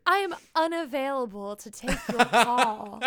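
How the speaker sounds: retold formal voicemail, lightly done; adult voice. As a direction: try to sound professional. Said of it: "I had my most adult voice on".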